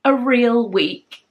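slow, weighty emphasis with a pause before 'a real week'; in earnest, drawn out and stressed at the end; serious note. Real, not acted. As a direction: say it seriously, leaning hard on 'real week'. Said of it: "on a very kind of serious note".

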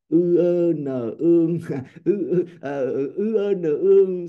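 drill-style spelling with each letter stressed; spelling out ương. Shown as a demonstration. Teacher spells a Vietnamese rhyme for the class, letter by letter. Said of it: "mình đọc là".

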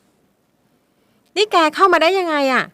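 put-on high, slow, shocked young woman; frightened daughter confronts stepfather; startled girl. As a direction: gasp it out at the intruder. Daughter wakes to intruder.

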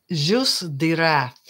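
slow, put-on French accent. Shown as a demonstration. Crafter naming the rat potion, slow French accent. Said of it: "That is my French accent".

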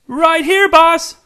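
a short shout across the room; eager shout of boss; calling out. Acted. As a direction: call for the boss's attention.

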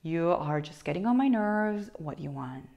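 fed up. Shown as a demonstration. Teacher voices someone whose nerves are worn, fed up. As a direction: let annoyance out, dropping away on the question. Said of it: "things change, and your allora is more of like".

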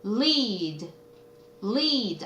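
"Lead" with a lightly added Korean "eul" sound before the L; light l onset. Shown as a demonstration. Teacher showing how to say L, "lead" with a light onset. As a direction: ease into the L of "lead" through a faint "eul". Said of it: "을 발음을 살짝 얹으면 된다".

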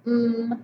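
mm held then ouse; segmented sounds. Shown as a demonstration. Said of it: "and that is".

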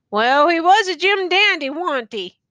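lightly voiced weary old soldier, musing; a hint of a rough country soldier, wondering aloud; tattered soldier. A narrator's reading. Tattered man's dialogue.

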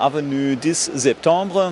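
French street name in heavy German accent; halting German-accented French; broken French. Real, not acted. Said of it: "Man entschuldigt mein, äh, schlechtes Französisch".

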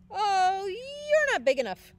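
high, crying panic; wail, terrified; scared wail. Acted. Ladybug wails scared.

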